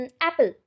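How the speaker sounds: एप्पल with the first vowel A stressed. Shown as a demonstration. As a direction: lean on the opening A of एप्पल, let the end drop. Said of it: "कौन से alphabet पे ज़्यादा focus किया". (एप्पल के पहले अक्षर 'ए' पर ज़ोर)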